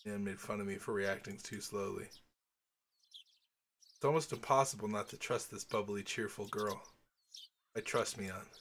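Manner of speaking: calm read-aloud narrator voice; story narration. Acted. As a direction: read the novel text evenly, as narrator. Reads visual novel narration aloud.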